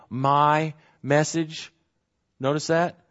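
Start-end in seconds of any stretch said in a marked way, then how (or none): 0.1-1.7 slow, my pressed before message; my drawn out and pointed; stress on my. Shown as a demonstration. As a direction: lean into my, slowly. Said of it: "with emphasis on the personal pronouns".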